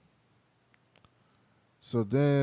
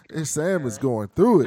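ordinary talk, nothing marked

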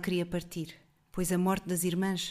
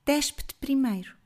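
put-on higher, defiant young woman; jovem firme; 6 semitones higher than usual. A narrator's reading. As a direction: throw the order back at him. Girl turns the command back. (jovem decidida e desafiante)

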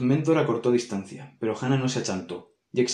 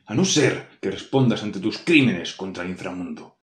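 grand proclaiming demon lord; pompous demon; 3 semitones lower, 4 dB louder than usual. Acted. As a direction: announce yourself like a demon of hell. Demon announces himself to Hannah.

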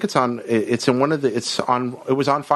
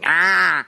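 bird screech; 5 semitones higher than usual. Retold or imitated. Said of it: "Your cat sound kinda frightens me".

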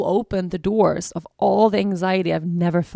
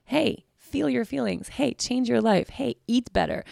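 voicing her body; 5 semitones higher than usual. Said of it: "my body alerting me like".

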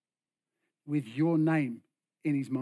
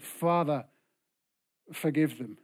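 praying; 2 semitones lower than usual. Acted. Jesus praying for his killers, calm prayer. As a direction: pray it evenly, letting it fall away. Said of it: "Jesus prayed".

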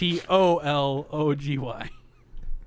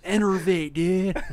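put-on surfer dude West Coast accent; 4 semitones higher than usual. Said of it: "In a West Coast accent?".

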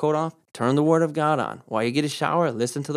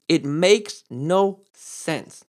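slow, pointed. Retold or imitated. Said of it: "He's basically saying".

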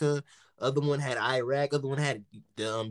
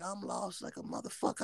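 whispered panic to himself; panicked whisper; 4 semitones higher, 10 dB quieter than usual. Retold or imitated. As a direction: whisper it, suddenly realising you're lost. Retold panic, lost in taxi.

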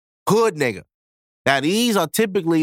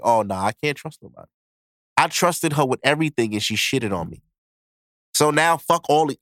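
lower, hardened jaded voice; bitter Charles; 3 semitones lower than usual. Acted. Heartbroken man swearing off women, low and hardened. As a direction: sound done with trusting anyone. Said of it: "Charles is like".

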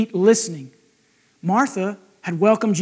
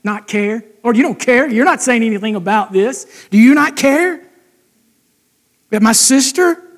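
jabbing complaint. Retold or imitated. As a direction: make every word a little dig.

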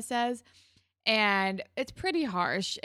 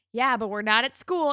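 threatening; 3 semitones higher, 8 dB louder than usual. Retold or imitated. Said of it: "is very threatening and in his face".

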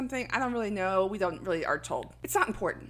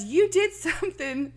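higher-pitched imitated New Jersey kid accent; New York-New Jersey accent; 8 semitones higher, 3 dB louder than usual. Little girl accusing her brother, imitated Jersey accent. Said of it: "because these accents".

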